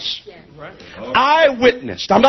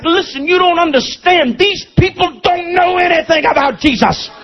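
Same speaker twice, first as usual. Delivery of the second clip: retold frustrated plea; 3 semitones higher than usual. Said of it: "I'm like".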